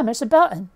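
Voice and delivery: "Belton" as Bel'n, T swallowed; reply with no T in "Belton"; dropped T. Retold or imitated. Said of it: "The letter T does not get pronounced".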